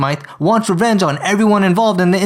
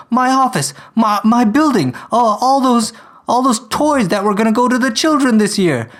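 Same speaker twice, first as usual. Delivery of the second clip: higher-pitched, stammering dismay; mock-anguished boss mourning his losses; distraught lament; 5 semitones higher than usual. Boss laments his wrecked building.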